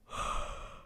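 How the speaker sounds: sleepy breathy yawn. Real, not acted. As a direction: let out a tired yawn. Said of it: "I keep yawning".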